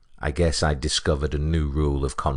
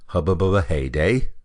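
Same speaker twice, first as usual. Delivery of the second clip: rising, louder disbelieving question; incredulous echo; 3 semitones higher, 4 dB louder than usual. Retold or imitated. Passenger echoing the janitor's odd answer, incredulous. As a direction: repeat it back like you can't believe it.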